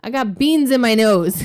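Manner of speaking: a hint of a small child; lightly voiced little girl confessing; kid's voice, lightly. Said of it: "And she goes".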